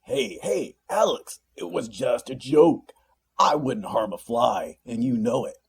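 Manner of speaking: high, loud defensive protest; backpedal, pleading innocence; defensive demon. A narrator's reading. Demon protesting to his captain, loud and defensive. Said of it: "put his hands up defensively".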